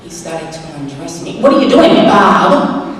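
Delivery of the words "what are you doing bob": alarmed protest. Acted. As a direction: blurt it out in comic alarm. Acting out alarm at being undressed.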